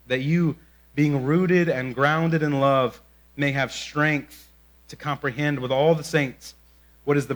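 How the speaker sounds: slow, solemn scripture reading. Real, not acted. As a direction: read the prayer slowly and reverently. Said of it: "Here's what Paul prays for".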